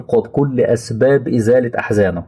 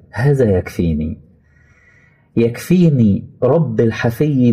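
tender prayer; slower than usual. Acted. Voicing Abraham's prayer, slow.

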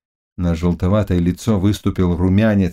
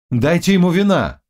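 urgent call; 8 semitones higher than usual. Acted.

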